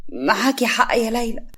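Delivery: slow, gentle agreement; tender. Acted. Sara gently comforts Laila, slow and tender. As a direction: soften and slow down to comfort her. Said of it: "سارة بحنان".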